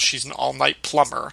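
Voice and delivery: straight-faced imitation of a brazen lie; retold deadpan delivery. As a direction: say it poker-faced, giving nothing away. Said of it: "just deadpan, straight face, poker face, he just goes".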